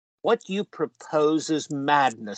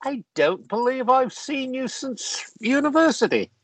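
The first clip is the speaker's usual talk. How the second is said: delighted greeting; 5 semitones higher than usual. Acted. Old friend delighted to see Jekyll again. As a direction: boom out surprise at an old friend.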